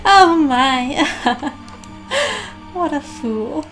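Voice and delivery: loud, high, cackling mockery; villainous mockery. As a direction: sneer down at the fool with a laugh. Villain mocks the player.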